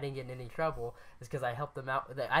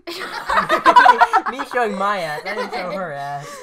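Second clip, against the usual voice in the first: loud, high burst of laughter through the words; laughing hard; 6 semitones higher, 13 dB louder, much slower than usual. Real, not acted. Friend fixes her slip about who mooned, laughing hard. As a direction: crack up while correcting yourself.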